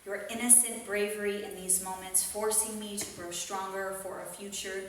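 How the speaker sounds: measured, earnest spoken word delivery; open mic poet. Acted. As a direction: recite it like a heartfelt poem. Reads poem at open mic.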